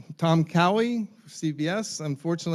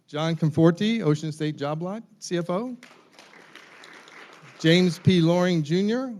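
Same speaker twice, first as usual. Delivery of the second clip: booming announcer-style introductions, pitched up; Gene Valicenti; 3 semitones higher, 6 dB louder than usual. Acted. Moderator introduces the CFO panel to the audience, announcer impersonation. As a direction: call out each name loudly, lifting the titles. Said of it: "my best Gene Valicenti impersonation".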